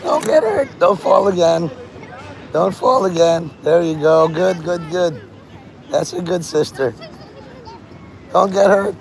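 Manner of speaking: put-on older sister voice. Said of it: "the older sister is like".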